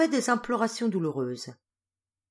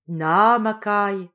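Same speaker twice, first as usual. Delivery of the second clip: tender; 3 semitones higher, 8 dB louder, slower than usual. A narrator's reading. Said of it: "fit-il tendrement".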